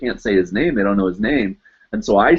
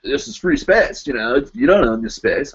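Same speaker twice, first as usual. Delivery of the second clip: lightly voiced drunk neighbor; put-on guy voice; 4 semitones higher than usual. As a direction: imitate a drunk man protesting, pitched up at first. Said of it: "talking like that for this guy".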